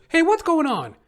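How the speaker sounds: squeaky mock buddy calling out; buddy's voice. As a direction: imitate the friend stepping out, high and loud. Buddy pops out of store.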